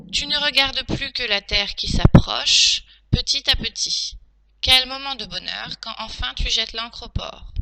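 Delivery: projected teacher's reading voice; dictation read-through. Shown as a demonstration. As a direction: read the text out clearly to a class.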